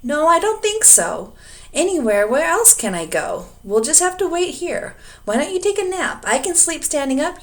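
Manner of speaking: a calm, weary dragon. A narrator's reading. Dragon and Elmer dialogue.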